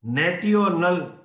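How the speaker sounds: "National" read as nat-ee-o-nal; spelling pronunciation. Shown as a demonstration. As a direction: slowly sound out "National" with a hard T. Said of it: "But you don't say national".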